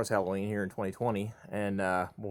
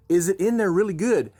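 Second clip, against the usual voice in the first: higher, louder teasing prompt; coaxing dad; 9 semitones higher, 6 dB louder than usual. Retold or imitated. Dad setting up a prank on his son. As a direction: lure him closer. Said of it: "I said".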